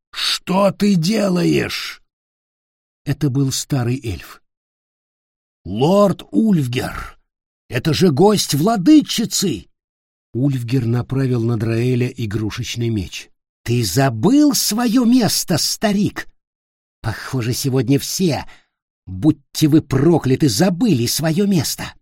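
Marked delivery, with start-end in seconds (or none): 0.1-9.7 lightly voiced old elf. Old elf protesting the beating. 13.6-21.9 contemptuous rage. Acted. Ulfger mocking the old elf.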